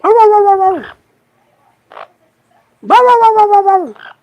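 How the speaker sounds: very high, loud yapping dog barks. Shown as a demonstration. Barking at the dogs to get them to bark back, very high and loud. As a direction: yap like a small excited dog. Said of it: "Go woof".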